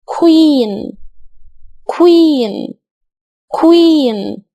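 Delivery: queen with a clear kw and long ee; pronunciation demo. Shown as a demonstration. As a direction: model queen slowly. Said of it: "فنقول". (queen بصوت كوا و إي طويلة)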